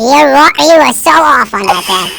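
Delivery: mock indignant kid; defiant son. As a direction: argue back hard at dad. Arguing back at dad.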